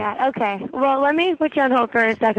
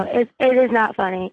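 laughing. Real, not acted. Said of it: "it's not a laughing matter".

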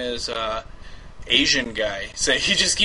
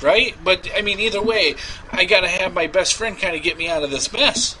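rambling pleading; 3 semitones higher than usual. Acted. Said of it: "I will play me".

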